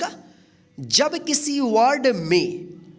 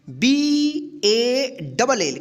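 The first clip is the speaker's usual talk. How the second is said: slow letter spelling; much slower than usual. Shown as a demonstration. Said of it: "spelling letters for students".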